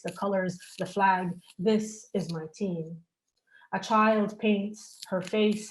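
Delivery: measured poetry reading with falling line ends; solemn, incantatory poem delivery; poem recital. Acted. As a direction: recite it line by line, letting the images accumulate. Reads own poem aloud.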